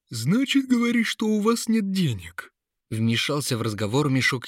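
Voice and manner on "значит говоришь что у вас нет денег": high, cunning sack of tricks; mocking high-pitched schemer; sly trickster voice. A narrator's reading.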